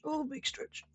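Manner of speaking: high, cooing pet voice; talking to a cat. Real, not acted. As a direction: coo at the stretching cat. Talking to her cat stretching.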